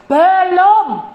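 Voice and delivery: high, loud booming reply; God firmly answering the boasting preacher. Acted. God's voice answering.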